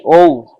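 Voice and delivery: a loud, isolated "O" as in "oh"; pronunciation demo. Shown as a demonstration. Teacher models the O for zero, clear demonstration. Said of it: "se pronuncia así".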